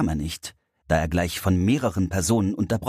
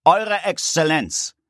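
deep clear voice; 10 semitones higher, 4 dB louder, slower than usual. Acted. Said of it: "Eine tiefe und klare Stimme ertönte".

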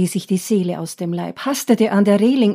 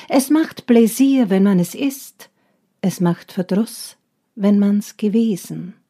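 poem recitation; 3 dB louder than usual. Acted. Recites a Wilhelm Busch verse.

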